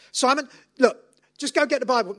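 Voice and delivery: high, loud thrilled mother; rally the kids with breathless excitement; excited mum. Retold or imitated. Mother calling her kids to the table, high and excited. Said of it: "the lady with the family".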